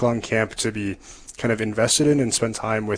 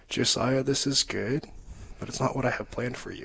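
soft and gentle, fading quieter; gentle voice of the Lord; 2 semitones higher, 8 dB quieter than usual. Retold or imitated. The Lord gently redirecting a young man's plans, softly. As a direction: lay it down gently, like a kind reassurance. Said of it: "so clearly but so gently the Lord saying".

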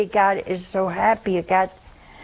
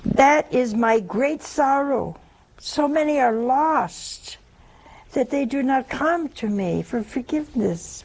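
sorrowful words of Jesus; 2 semitones higher, slower than usual. Acted. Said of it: "These are the words of Jesus".

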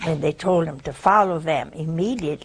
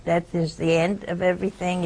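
ordinary talk

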